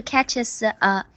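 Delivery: "catches" and "a" said separately; imitated unlinked reading. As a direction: mimic the student's gap between "catches" and "a". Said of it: "没有连读起来". (模仿学生没连读，catches 和 a 分开读)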